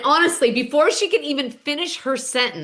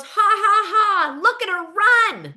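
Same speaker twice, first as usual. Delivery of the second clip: mocking laugh; 8 semitones higher, 4 dB louder than usual. Mocking Tamara leaving the party.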